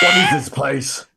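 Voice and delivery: high, loud, slow roar; demonic bellow. Acted. The summoned imp bellows at the wizard, loud and high. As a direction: demand it at full volume.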